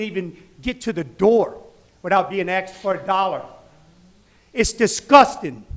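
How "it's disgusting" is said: slow, louder, disgusted. Real, not acted. Resident to council, slow and louder disgust. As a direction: spit out the disgust slowly.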